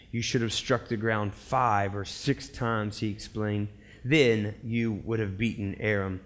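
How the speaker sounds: measured low read-aloud voice; scripture reading. A narrator's reading. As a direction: read the Bible story out evenly. Reads Bible story aloud.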